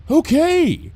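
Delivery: easy agreement; lightly voiced Lyra. A narrator's reading. Lyra answering her friend, carefree.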